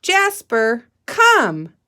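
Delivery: calling Jasper, come, loud; calling a pet. Shown as a demonstration. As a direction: call the dog over. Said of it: "Can you say that with me".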